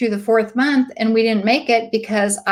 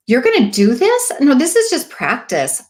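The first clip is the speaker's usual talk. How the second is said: alarmed; 4 semitones higher than usual. Retold or imitated. Panicked about practice recruit.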